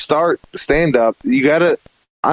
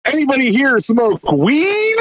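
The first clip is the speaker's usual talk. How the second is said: sudden casual question; 12 semitones higher than usual. Retold or imitated. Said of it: "I stop crying and I go".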